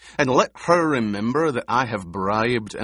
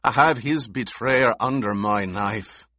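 higher, louder, fast and impassioned; vengeful fury; 5 semitones higher, 5 dB louder than usual. A narrator's reading. Gurney raging at Paul over the duke's betrayer, furious. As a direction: pour out his grief as rage. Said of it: "Gurney said".

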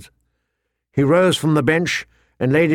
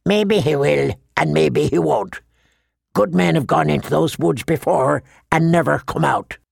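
lightly voiced grizzled old brother; a hint of an old man's dour doubt; doubtful old Yoren; 3 semitones higher than usual. Black brother doubting a missing man's return, dour.

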